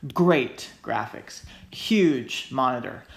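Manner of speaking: slow, weighted "great" and "huge"; "great" and "huge" pressed in a slow list; stressed words. Shown as a demonstration. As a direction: drag out "great graphics, huge monitor" slowly. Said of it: "emphasis being laid on".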